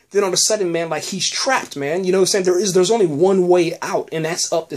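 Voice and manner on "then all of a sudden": quick laughing repeat, higher. Real, not acted. Recapping the episode to viewers, laughing. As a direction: laugh through the words as they tumble out.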